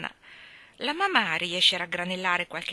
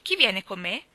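slightly raised, louder question; mildly projected question; aloud; 5 dB louder than usual. A narrator's reading. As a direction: ask it out loud to the room. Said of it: "chiese ad alta voce".

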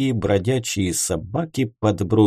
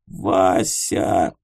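grief-stricken cry; 4 semitones lower than usual. A narrator's reading. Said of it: "Он зарыдал".

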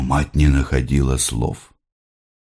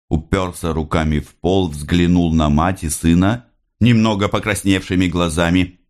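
usual speaking voice

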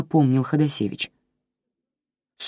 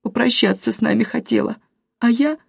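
much higher, voice breaking; fighting back tears; tearful; 9 semitones higher than usual. A narrator's reading. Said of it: "всхлипнула". (высоко, голос срывается от слёз)

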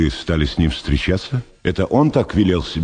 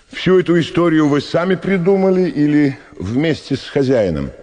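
sharp; 10 semitones higher than usual. Acted. Doctor confronts suspect.

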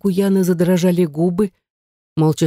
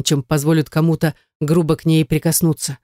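ordinary delivery, nothing marked

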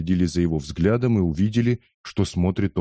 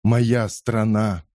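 moaning; 2 semitones higher, much slower than usual. Acted. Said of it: "простонал Кетчу".

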